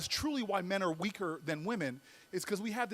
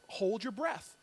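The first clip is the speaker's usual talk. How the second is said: measured, softer command; slow words; 5 dB quieter, slower than usual. Retold or imitated. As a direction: give the order slowly, word by word. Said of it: "he says to me in slow words".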